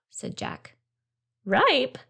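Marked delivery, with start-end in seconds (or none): 1.4-2.0 surprised. A narrator's reading. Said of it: "said Zara in surprise".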